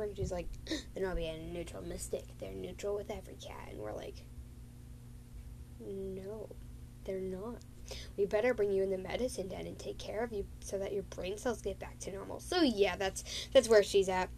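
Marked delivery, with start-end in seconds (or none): 0.9-12.4 voices dropped to a soft whisper; hushed retelling. Retold or imitated. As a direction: whisper the whole exchange. Cats whisper in retold talk.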